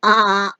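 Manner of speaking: drawn-out imitated bleat; sheep bleat. Shown as a demonstration. Teacher showing the other sheep sound, bleating. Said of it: "A sheep says".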